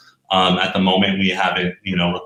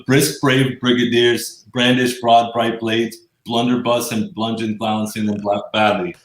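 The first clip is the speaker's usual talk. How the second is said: tongue twister attempt. Real, not acted. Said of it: "This is gonna be an F".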